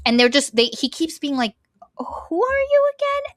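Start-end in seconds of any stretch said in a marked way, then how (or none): 2.0-3.3 put-on breathy high whisper of a confused old man. Forgetful old potter asks names.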